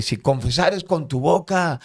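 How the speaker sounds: high, loud retold scripture cry; imitated yelled reading; shouted Bible verse. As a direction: shout the verse out across the cells. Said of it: "empecé a gritar lo que decía Romanos".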